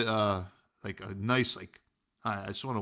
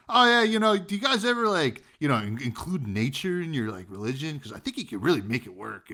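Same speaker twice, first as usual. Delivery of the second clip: gushing enthusiasm; 4 semitones higher than usual. Retold or imitated. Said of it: "like, goes off".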